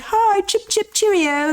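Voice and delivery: high, chirpy mock-British hello; playful British-style greeting. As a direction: toss out a cheeky high-pitched greeting. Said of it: "I'm, like, being like".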